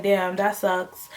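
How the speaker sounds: imitating mild sympathy, slow; slow, slightly subdued commiseration; trying to comfort. Man hearing about her family, trying to be comforting. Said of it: "he's trying to be, like, comforting".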